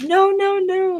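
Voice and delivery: high, insistent "no, no, no"; quick denial. Retold or imitated. Daughter assuring her mom she meets no men, high insistent denial. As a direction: protest fast and high, brushing it off.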